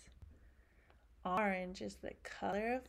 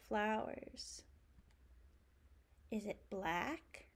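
put-on reading to a toddler. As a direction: ask each question to the little ones. Reading a picture book aloud.

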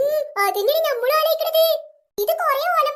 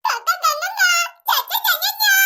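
mock bawling on nonsense syllables; fake crying; 2 semitones higher, much slower than usual. Children crying for show, syllables chanted as mock sobs. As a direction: cry as if reciting the alphabet. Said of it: "ഇവര് കരയാണോ അതോ മലയാള അക്ഷരം പഠിക്കാണോ?".

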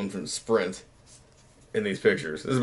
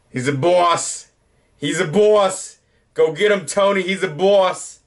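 slow, higher mock mobster drawl from a New York boss; hammed-up gangster accent, slow and pitched up; 7 semitones higher, 3 dB louder, slower than usual. Showing old prom photos, hamming up a mob boss accent. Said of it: "I'll stop talking like that".

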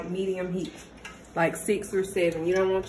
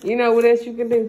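loud; 4 semitones higher, 8 dB louder, faster than usual. Real, not acted. Repeats louder to cut in.

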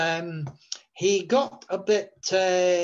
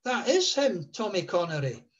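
high, softer astonished voice; imitated amazement; 9 semitones higher, 3 dB quieter than usual. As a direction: marvel at it, pitched way up. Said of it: "He said".

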